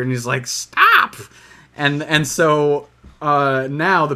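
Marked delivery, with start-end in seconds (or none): 0.5-1.1 high, loud mock shriek; imitated exasperated yell. Iago refusing the Sultan's crackers, imitated high yell.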